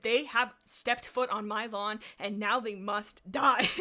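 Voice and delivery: slow, menacing threat from the clan leader. Acted. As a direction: drag out the threat like a cartoon villain. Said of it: "He said".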